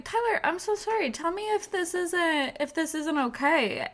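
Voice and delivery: high, hurried pleading apology; mock apologetic. Co-host retelling her apology to Tyler, high and apologetic. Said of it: "And I'm always like".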